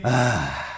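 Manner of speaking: long sighing "ah" on the out-breath; vocal sigh after a deep breath; deep breath exhale. Shown as a demonstration. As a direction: breathe out audibly as a warm-up. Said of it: "Respiração profunda e inspirem".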